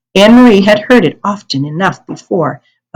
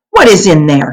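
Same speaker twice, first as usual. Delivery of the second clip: loud question; 4 dB louder than usual. Acted. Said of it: "he asked loudly".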